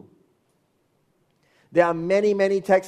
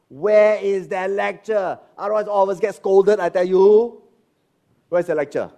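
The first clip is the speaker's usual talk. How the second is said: loud demanding; 5 semitones higher, 7 dB louder than usual. Acted. Pastor pressing the congregation to find the lecture, loud and insistent. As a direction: demand it from the crowd.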